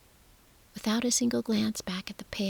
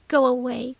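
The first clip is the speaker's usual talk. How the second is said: sharp, louder cry into a pillow; mock shriek; 4 semitones higher, 8 dB louder than usual. Spoiled boy shrieking at everyone to leave. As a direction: shriek it, muffled but sharp. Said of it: "Colin shrieked into his pillow, his voice muffled but sharp".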